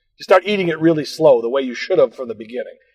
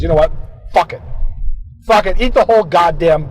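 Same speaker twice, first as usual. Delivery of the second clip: giving in; 4 semitones higher, 4 dB louder than usual. Retold or imitated. Inner voice giving in.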